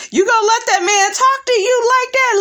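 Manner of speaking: mock instigating friend. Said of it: "he was like".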